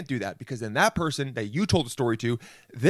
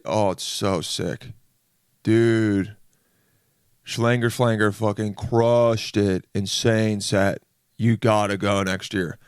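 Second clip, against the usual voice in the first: slow, drawn-out dude hype; festival-goer gushing; 2 semitones lower, much slower than usual. Acted. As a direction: stretch the words like an awed festival bro. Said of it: "every festival conversation".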